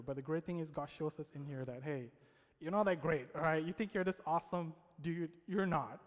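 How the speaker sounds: ordinary talk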